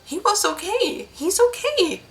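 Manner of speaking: high, broken disbelief; grief-stricken. Acted. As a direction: whisper it to herself in shock. Widow clutching husband's shoes.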